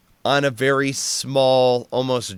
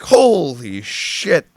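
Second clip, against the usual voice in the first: slow, louder fake shock; mock alarm; 3 semitones higher, 5 dB louder, much slower than usual. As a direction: draw out a staged cry of alarm. Feigned injury after lieutenant fires.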